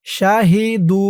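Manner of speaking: শাহিদু with the দু drawn out one alif; long final vowel. Shown as a demonstration. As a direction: stretch the last vowel of শাহিদু for one beat. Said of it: "দু এক আলিফ টান".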